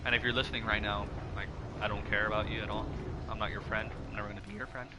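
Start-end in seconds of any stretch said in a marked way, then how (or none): 4.1-4.9 cracking voice on the last words. Real, not acted. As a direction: let the voice crack with emotion. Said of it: "Voice crack right there".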